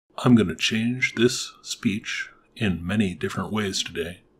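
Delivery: low, dropped-pitch speech. Demonstrating a voice-changer pitch setting on own speech, in a low pitch voice. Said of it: "(Low pitch voice)".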